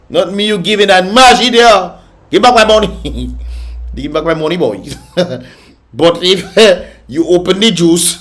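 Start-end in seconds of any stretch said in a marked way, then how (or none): 0.1-3.3 loud insistent demand for a refund; indignant demand. Retold or imitated. Demanding a refund from the store, indignant. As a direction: demand your money back.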